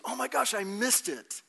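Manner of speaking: high, drawn-out mock dismay; hammed-up cry of disappointment; acted dismay. Acts out friend arriving too late.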